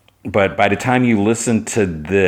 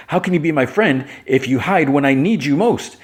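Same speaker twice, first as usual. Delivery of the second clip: high, acted wounded accusation; hurt reproach; 7 semitones higher than usual. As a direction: play a let-down friend demanding an answer. Kara's acted quarrel with Jimmy.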